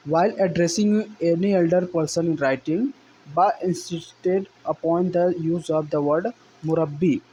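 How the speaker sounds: slow, deliberate reading aloud of the English passage; slow text reading. Shown as a demonstration. Teacher reading the textbook passage to students, slow and deliberate. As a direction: read each phrase out slowly for the class.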